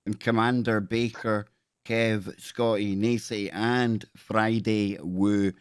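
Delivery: lightly put-on Scottish accent, reading a message out; a hint of a Scottish accent, half-hearted; reading a donation aloud in a mock Scottish accent. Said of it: "I'll read it out in my best Scottish accent".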